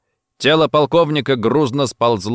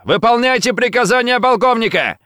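high, loud order; commanding shout; 12 semitones higher, 4 dB louder than usual. A narrator's reading. Gomikawa orders the agents out, commanding shout. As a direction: bark the order. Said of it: "крикнул на них Гомикава".

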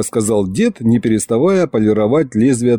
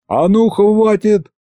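barked command; 10 semitones higher, slower than usual. A narrator's reading. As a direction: bark it to stop them. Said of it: "рявкнул я". (рявкнул, пресекая ссору)

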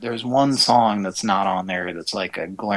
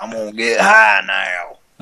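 stoner voice; 5 dB louder than usual. Pretend. Stoner persona.

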